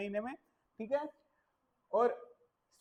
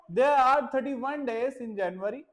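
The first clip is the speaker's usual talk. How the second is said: very slow, clear dictation; slow teaching read; 3 dB louder, much slower than usual. Shown as a demonstration. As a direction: read it out slowly for children. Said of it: "teacher reading slowly". (बच्चों के लिए धीमे पढ़ना)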